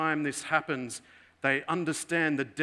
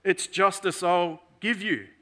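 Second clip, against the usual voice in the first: stern professor; 4 semitones higher, 3 dB louder than usual. Retold or imitated. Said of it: "So the professor says".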